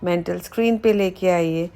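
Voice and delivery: measured meditation voice with pauses between phrases; unhurried body-scan narration, phrase by phrase; guided meditation. Acted. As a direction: guide the listener calmly through relaxing each body part. Leads guided body relaxation meditation.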